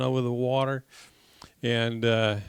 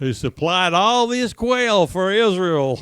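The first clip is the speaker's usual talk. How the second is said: raised, louder proclamation of praise; higher, emphatic call for congregation to echo; rousing prayer finish; 6 semitones higher, 8 dB louder than usual. Real, not acted. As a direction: lift the prayer to a big close. Rousing close of led prayer.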